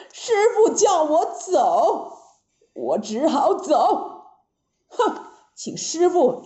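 lightly voiced aggrieved Monkey King; a touch of wounded defiance; Monkey King, sulking. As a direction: give in huffily, drawing out the first words.

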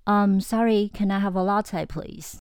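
hesitant apologetic ask, please fading; timid, very polite order; extra polite request. Shown as a demonstration. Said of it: "更加礼貌版".

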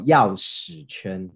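钥匙圈 said very slowly, each syllable drawn out; careful pronunciation. Shown as a demonstration. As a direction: spell out 钥匙圈 slowly and clearly. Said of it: "钥匙圈要发音正确".

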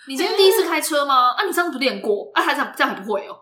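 mock sarcastic coach. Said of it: "一直用那种酸言酸语".

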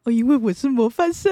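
put-on child telling hairdresser she's a model student; proud kid answer. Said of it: "为什么要跟校长拍照".

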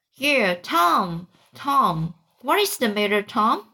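put-on worried boy, rising concern; anxious. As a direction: ask him anxiously, shaking him. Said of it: "looked in his face anxiously".

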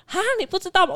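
an incredulous, know-it-all "啊，你不知道吗？"; a hint of the classmate's surprised tone; imitating classmate. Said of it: "他这样跟我说".

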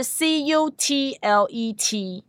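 C U T L E T spelled slowly, letter by letter; spelling it out. Shown as a demonstration. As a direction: spell out C U T L E T one letter at a time. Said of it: "怎么拼呢".

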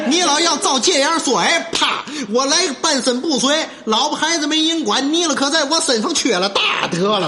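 mock-outraged self-defence; worked-up indignation. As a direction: protest at length like an accused braggart. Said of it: "他可急了".

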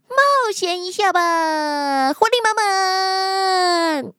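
bouncy, cheerful sloth voice; chirpy and full of pep; lively sister sloth. Acted. Energetic sister sloth answers.

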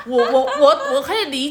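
laughing. Real, not acted. Tutor laughing while defending her anger at the pupil. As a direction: laugh through the admission that she lost it.

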